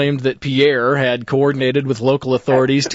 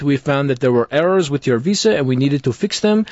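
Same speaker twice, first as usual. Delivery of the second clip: put-on French Canadian accent. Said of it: "In my worst French Canadian accent".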